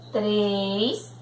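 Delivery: "Três" held on a closed ê; closed vowel. Shown as a demonstration. Teacher reading along with pupils, "Três" with long closed ê. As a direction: draw out the closed ê of "Três", rising at the end. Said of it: "som fechado".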